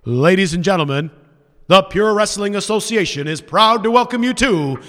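measured ring-announcer delivery. Acted. Wrestler ring-announcing to a silent crowd, announcer voice. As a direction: introduce the show like a wrestling announcer. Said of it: "as I'm doing my whole announcer voice".

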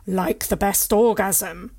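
slow, loud, booming. Acted. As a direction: boom it out slowly. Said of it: "a booming voice says".

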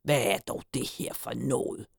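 subdued, grumbled dismay; despairing grumble. A narrator's reading. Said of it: "brummede Hyggen fortvivlet".

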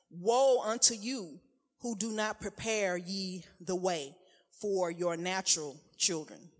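forceful preaching, slow and solemn; prophetic declaration. Acted. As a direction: proclaim it like an Old Testament prophet. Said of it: "the Lord gave me, like, a, a, a pre-word".

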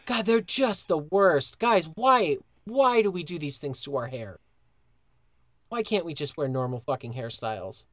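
worked-up complaint, sinking as it goes; exasperated rant. Real, not acted. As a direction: plead in exasperation, then lose steam. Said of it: "You getting angry".

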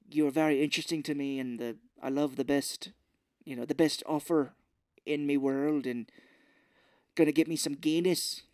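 quick mock Irish lilt with "me world"; a hint of a hammed-up Irish rogue; bad Irish accent. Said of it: "terrible Irish accent".

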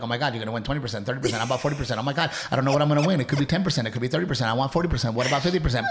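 rapid-fire mock auctioneer patter; lightly played auctioneer, numbers tumbling out. Man pitching his slot machine feature, playing a quick auctioneer. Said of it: "I could do the auctioneer thing".

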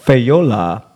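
big announcer voice reading names; game show host. Retold or imitated. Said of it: "You sound like a game show host".

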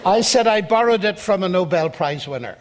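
chuckling as he says it, amused at his own reveal; laughing through the punchline. Real, not acted. To the audience, revealing his borrowed argument, laughing. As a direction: let the laugh leak into the words.

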